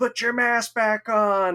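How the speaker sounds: high, drawn-out yell. Retelling how people in a long line yelled at the speaker, imitating people yelling. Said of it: "people like yelling".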